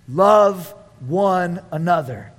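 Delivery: low, very slow, each word set apart; old man preaching. Acted. Old John from the pulpit, slow old-man preaching. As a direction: deliver it as the aged apostle's weighty message. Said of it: "an old, old man".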